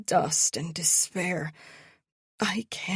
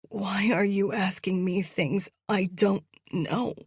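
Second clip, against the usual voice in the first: trembling voice; 2 semitones higher than usual. Acted. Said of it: "my voice trembling".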